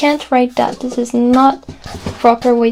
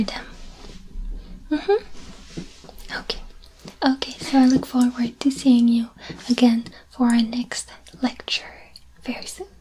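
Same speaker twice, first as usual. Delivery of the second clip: soft whispered sign-off; whispered goodbye; 6 dB quieter than usual. Real, not acted. Teacher softly signs off to students. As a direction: hush it gently. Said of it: "soft farewell".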